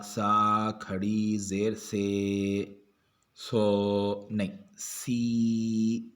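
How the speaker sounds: each syllable drawn out, very slow; slow spelling drill. Shown as a demonstration. Teacher spelling Qaida letters for students, very slow drill.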